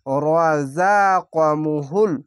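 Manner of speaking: রাযাকামুহুল chanted very slowly and drawn out; slow recitation. Shown as a demonstration. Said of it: "recitation demo".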